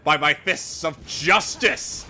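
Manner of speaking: heroic declaration. Acted. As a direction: proclaim like a caped hero. Superhero voice to villain.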